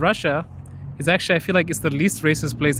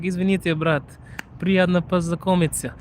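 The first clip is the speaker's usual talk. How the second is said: imitating guard; 3 semitones higher than usual. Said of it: "he's like".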